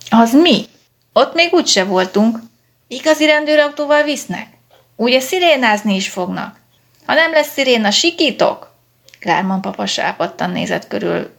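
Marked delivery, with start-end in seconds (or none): 0.1-8.7 put-on high, loud childish glee; cheering kids. A narrator's reading. Excited children cheer about riding in a police car. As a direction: squeal it like thrilled little kids. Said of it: "a gyerekek felújjongtak".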